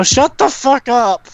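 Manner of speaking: high, drawn-out angry yell; yelling out the window. Acted. Jenny yelling out the window at everyone screaming, high yell. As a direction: holler down at the noisy crowd. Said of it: "poke her head out the window and go".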